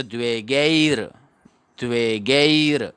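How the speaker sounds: गेर as a gliding "gay-ir", र cut short; half र ending. Shown as a demonstration. Teacher modelling the half र, measured and careful. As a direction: stretch the vowel of गेर, close on bare र. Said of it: "र पूरा नहीं पढ़ना है".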